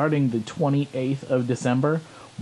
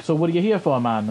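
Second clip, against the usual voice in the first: attempted Jamaican accent, a bit higher; rough Jamaican lilt on a retold line; 4 semitones higher than usual. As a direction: imitate a Jamaican man, loosely. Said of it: "it's this Jamaican guy".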